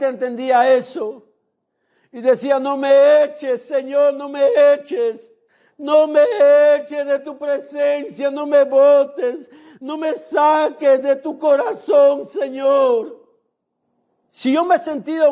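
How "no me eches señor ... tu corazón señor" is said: slow, drawn-out begging that breaks into cries; anguished pleading prayer. Retold or imitated. David begs God in anguish not to be cast out, crying out. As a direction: plead desperately, stretching each "no me eches".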